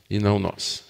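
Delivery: low, soft afterthought for emphasis; hushed repeat. Real, not acted. Pastor repeating that power is God's, hushed. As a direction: drop low and soft to underline it.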